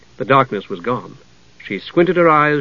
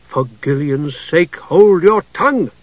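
snapped; 3 semitones higher than usual. A narrator's reading. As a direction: cut the kender off hard. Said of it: "Jenna snapped".

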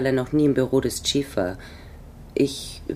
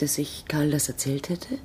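whisper; 5 dB quieter than usual. Acted. Spy answering a detective's question.

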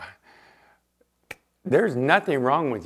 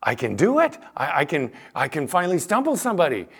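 proud excitement; 4 semitones higher than usual. Retold or imitated. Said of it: "It was like a badge".

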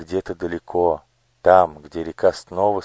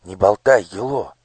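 plain reading voice

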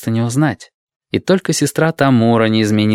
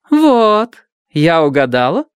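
triumphant; 8 semitones higher, 4 dB louder, slower than usual. Acted. Tamura triumphant guess.

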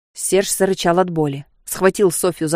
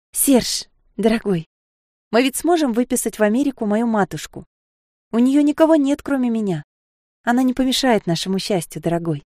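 Sofia, pleading; 5 semitones higher than usual. Acted. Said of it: "Боясь отказа".

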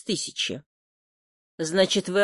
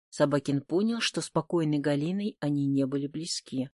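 ordinary delivery

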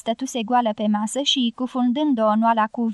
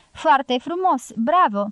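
sarcastic; 3 semitones higher, slower than usual. Acted. Pablo mocks Agustin sarcastically.

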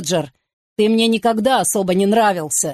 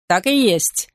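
exclaimed. A narrator's reading. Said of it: "возопил Питер".

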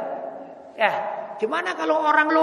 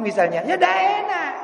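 ordinary talk

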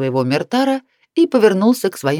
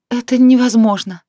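despairing mutter; 6 semitones higher, 5 dB louder than usual. A narrator's reading. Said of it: "с отчаянием пробормотала Сиена".

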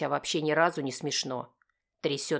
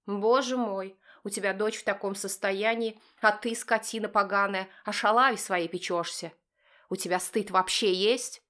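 high, louder furious wife; voiced angry wife; 6 semitones higher, 3 dB louder than usual. Wife berating husband over their daughter, high and furious. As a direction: scold him as his furious wife.

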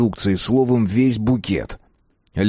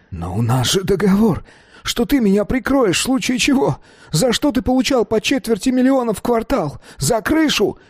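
much higher, pleading almost-yell; agitated near-shout; 13 semitones higher than usual. A narrator's reading. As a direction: nearly shout it in alarm at being betrayed. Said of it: "почти закричал Долидзе в волнении".

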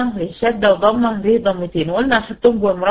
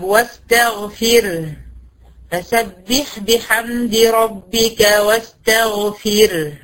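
واستغفر recited very slowly; slow Quran recitation; much slower than usual. Shown as a demonstration. Teacher reciting the verse to show a thin r. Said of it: "اهي الري ساكنة".

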